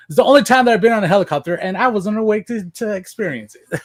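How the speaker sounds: laughing. Real, not acted. Laughing at helicopter irony.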